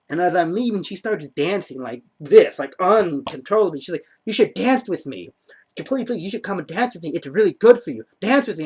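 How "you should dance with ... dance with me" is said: animated imitation of eager urging; insistent coaxing. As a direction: coax insistently with lively jumps in pitch. Imitating dancing date urging him.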